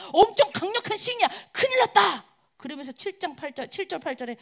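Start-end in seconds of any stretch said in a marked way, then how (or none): 0.1-2.3 high, urgent mock alarm; acted panic. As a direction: play a panicking enemy soldier. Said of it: "막 난리가 난 겁니다". (겁먹은 적군을 다급하게 흉내)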